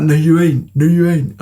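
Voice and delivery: high-pitched, incredulous denial; disbelieving friend imitation. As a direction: mimic a mate refusing to believe it. Voicing friend's disbelief on phone.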